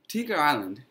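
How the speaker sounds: Tinker Island? asked back with a rising tune; puzzled echo. Acted. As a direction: repeat "Tinker Island" as an unsure question. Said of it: "said Stephen".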